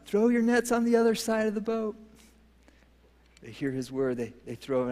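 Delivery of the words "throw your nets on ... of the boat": calling out across the water, raised high; retold yell. Jesus calling to tired fishermen, a mock shout. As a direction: call it out like a shout from the beach. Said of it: "and he yells out".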